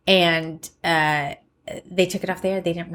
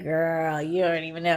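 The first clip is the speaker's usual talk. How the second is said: knowing warning; 3 semitones lower, 4 dB quieter than usual. Retold or imitated. Voices friend's knowing warning.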